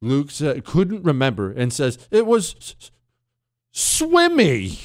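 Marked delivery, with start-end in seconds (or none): 2.1-4.8 imitating son. Son fumbling the fish's name.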